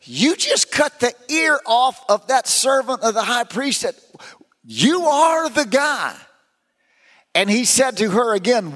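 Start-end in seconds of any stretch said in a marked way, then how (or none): 0.0-6.1 lightly voiced accusing girl, pitched high; a hint of a girl pointing a finger. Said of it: "the girl spoke up".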